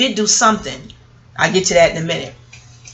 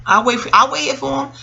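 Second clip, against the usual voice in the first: cousin's stubborn reply; 5 semitones higher than usual. Retold or imitated. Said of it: "she said".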